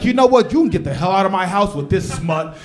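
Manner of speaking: kicking his son out in a rage; furious dad. Retold or imitated. Dad ordering son out of the house, angry. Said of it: "And the dad's like".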